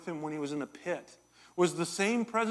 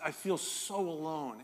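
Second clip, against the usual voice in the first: lonely plea; 4 dB quieter than usual. Real, not acted. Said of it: "And I'm saying that to God".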